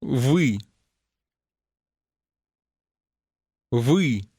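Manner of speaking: Вы with the Russian vowel ы, tongue pulled back, lips unrounded; isolated Вы, a short dark ы sound not found in English; teacher demo of the ы in Вы; Russian vowel model. Shown as a demonstration. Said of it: "ends with a sound which does not exist in English".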